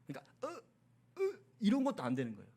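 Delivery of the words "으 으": short strangled grunts, imitating a lost voice; mimed failed attempt at speech; voiceless straining. Shown as a demonstration. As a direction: try to speak and get only a grunt. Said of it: "아예 말이 안 나와요".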